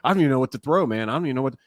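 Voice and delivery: mildly panicked, imitated; freaking-out catcher. Catcher at a loss what to call, mock mild freak-out. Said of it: "he is freaking out".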